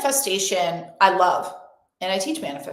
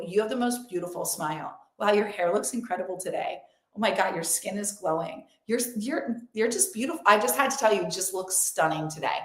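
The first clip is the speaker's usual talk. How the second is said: imitated compliments; 5 dB quieter than usual. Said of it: "will say to you".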